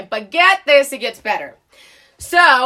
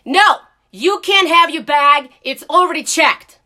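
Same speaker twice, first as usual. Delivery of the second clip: mock gate agent refusing loudly; firm refusal; 3 semitones higher, 5 dB louder than usual. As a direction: refuse her outright. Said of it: "that lady says to me".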